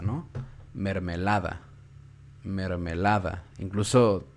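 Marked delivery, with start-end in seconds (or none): 0.7-1.6 "Mermelada" with the natural stress on LA; énfasis en la sílaba tónica. Shown as a demonstration. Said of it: "fíjense en dónde hay más fuerza". 2.4-3.4 "mermelada" drawn out slowly, stress on LA; énfasis en la sílaba tónica. Shown as a demonstration. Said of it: "fíjense en dónde hay más fuerza".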